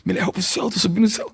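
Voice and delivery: hammed-up ecstatic praying, airy at first; ecstatic prayer. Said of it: "Aí eu entro". (oração extasiada e exagerada)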